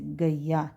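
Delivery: गैया as "ga-i-ya"; a-i glide. Shown as a demonstration. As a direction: model गैया slowly with a glide from a to i. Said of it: "लेकिन पढ़ेंगे हम इसको कैसे". (गैया को "गइया" जैसा बोलें)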